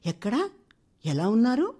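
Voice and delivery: eager, breathless question; eager, anxious question. A narrator's reading. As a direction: blurt it out anxiously. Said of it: "ఆత్రంగా అడిగింది భారతి".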